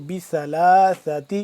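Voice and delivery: بثلاثت with a soft tha, tongue between the teeth. Shown as a demonstration. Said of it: "نرمی سے پڑھیں گے".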